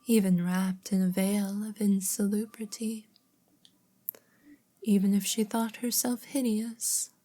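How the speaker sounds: measured storybook narrator; story narration. A narrator's reading. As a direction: read the tale aloud with care. Reads story aloud.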